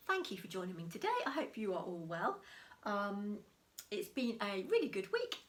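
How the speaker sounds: usual speaking voice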